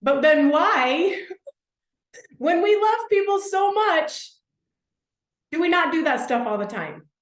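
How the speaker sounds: bursting into laughter over your own question; laughing disbelief. Real, not acted. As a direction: giggle at how absurd it is.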